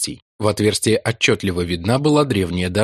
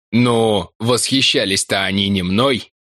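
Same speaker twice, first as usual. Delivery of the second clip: put-on young woman voice. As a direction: protest it, embarrassed. Ruth's voice held. (высоким голосом, смущённо)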